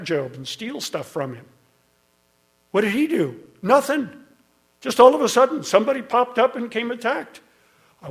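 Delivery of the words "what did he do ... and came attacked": climbing higher and louder into a full preaching cry; rising preaching force. Real, not acted. Preacher telling the congregation about Job, building to a loud cry. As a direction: hammer home that the attack came from nowhere.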